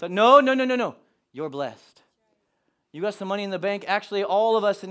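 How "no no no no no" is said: loud, higher burst of repeated no; emphatic objection. Acted. Preacher to an imagined complaining member, objecting loudly.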